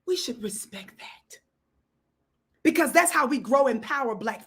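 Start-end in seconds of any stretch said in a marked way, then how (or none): 0.0-1.4 whisper. Real, not acted. Urging the audience, dramatic hush.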